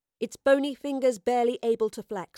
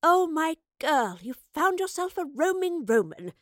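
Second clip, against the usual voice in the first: beaming delight; 8 semitones higher, 4 dB louder than usual. A narrator's reading. Professor hears of her friend's companion, loudly delighted. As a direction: crow with pleasure at your friend's news. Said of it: "The professor beamed at the news".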